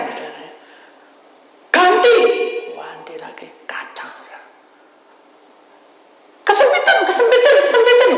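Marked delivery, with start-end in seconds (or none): 1.8-2.2 much higher, loud snap of an order; spirit command. Retold or imitated. Spirits demand another coffin, high loud. 6.5-8.1 very high, loud shriek; spirits shrieking. Retold or imitated. Spirits shriek the coffin is too tight.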